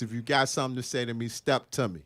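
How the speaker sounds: understated K-Town tough talk. Acted. Guest performing his Facebook post in his K-Town voice. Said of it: "In my K-Town voice".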